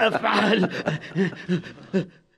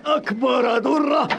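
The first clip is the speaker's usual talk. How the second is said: slow, higher proud cry; proud shout; 4 semitones higher, slower than usual. Acted. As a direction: proclaim it slowly and proudly. Boasts of his treasure. (صيحة فخر بطيئة)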